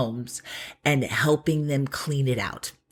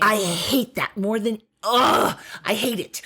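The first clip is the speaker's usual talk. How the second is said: slow, higher, exasperated emphasis; real pet-peeve frustration, groaned out; exasperated venting; 4 semitones higher than usual. Real, not acted. Venting to co-host about a hated phrase, exasperated.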